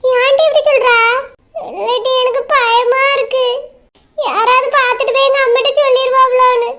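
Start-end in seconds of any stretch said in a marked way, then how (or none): 1.7-6.7 scared and weepy; anxious, plaintive whimper; tearful fear. Acted. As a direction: confess the fear close to tears. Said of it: "ஏன்க்கா இப்படி அழுதுட்டே இருக்கிய".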